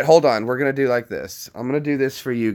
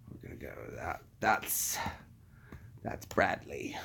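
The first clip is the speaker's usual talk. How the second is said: whispering; 8 semitones lower, 14 dB quieter than usual. Real, not acted.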